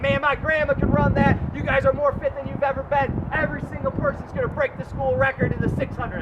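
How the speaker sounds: excited coach hyping his runners; pump-up talk. Retold or imitated. Coach pumping up his relay team, excited. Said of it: "I'm going".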